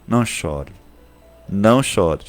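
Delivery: soft, hushed consoling of a grieving woman; tender comfort. Acted. Jesus softly tells the weeping widow not to cry, tender. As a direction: gently soothe her tears.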